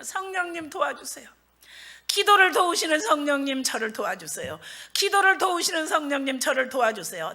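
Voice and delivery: imploring acted prayer; pleading prayer. Preacher wakes at night begging the Spirit, pleading.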